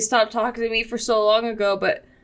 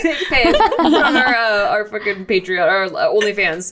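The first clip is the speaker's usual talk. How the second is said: laughing; 3 semitones higher, 4 dB louder than usual. Real, not acted. Laughing through tears.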